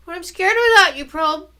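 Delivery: put-on high, loud and fast, frightened boy; little brother afraid to go without his sister, high and fast; scared little boy. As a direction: blurt it out like a scared kid.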